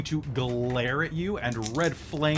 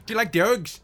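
put-on Snatch caravanner accent; 4 semitones higher than usual. GM imitates the boxer from Snatch for the players. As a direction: mumble it like the Irish traveller from Snatch. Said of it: "the caravanners from Snatch".

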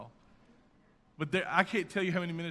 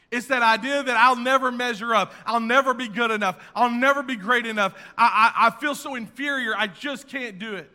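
loud, high insistent preaching; loud, high preaching of inferiority; preaching build; 5 semitones higher, 9 dB louder than usual. Acted. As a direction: press the point hard.

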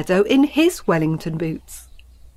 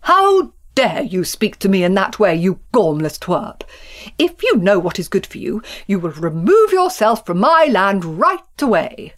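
indignant; 3 dB louder than usual. Acted. Angry quarrel between farmers.

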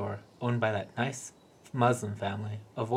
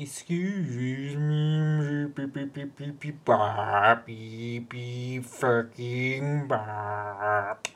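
slow, mechanical mock robot; 4 dB louder, much slower than usual. The speaker mocking robots to his manager, mock robot voice. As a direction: beep it out like a bad robot. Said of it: "He did that robot dance".

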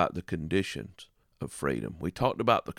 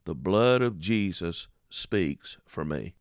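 song title; 2 semitones lower, slower than usual. Shown as a demonstration. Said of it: "There's a song titled".

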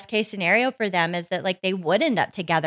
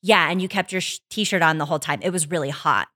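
sarcastic; 2 semitones lower than usual. Retold or imitated. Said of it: "so sarcastically says".

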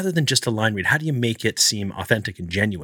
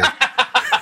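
bursting into a high, open laugh; a real, delighted laugh; 3 dB louder than usual. Real, not acted. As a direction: laugh out loud at the joke. Amused by Tinder joke.

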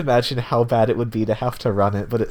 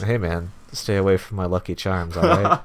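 monotone; 3 semitones lower than usual. Pretend. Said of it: "Just completely monotone".

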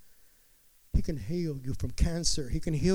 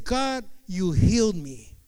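slow awed; 5 dB louder, slower than usual. Retold or imitated. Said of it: "I said".

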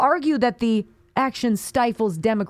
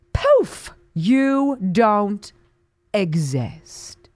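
playful vanishing sound; mock magic poof; 2 semitones lower, much slower than usual.

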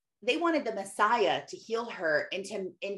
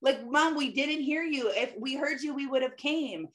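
put-on higher, whiny kids protesting mom; 5 semitones higher than usual. Kids protesting to mom, higher whiny voice. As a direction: kids pleading they didn't hear. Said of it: "They're like".

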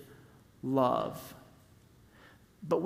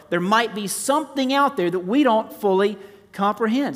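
impassioned preaching; 5 semitones higher, 5 dB louder than usual. Real, not acted.

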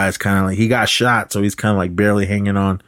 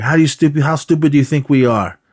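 higher mock-indignant question; retold incredulous scoff; 7 semitones higher, 4 dB louder than usual. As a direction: act out scornful disbelief. Outlaws scoff at the lie.

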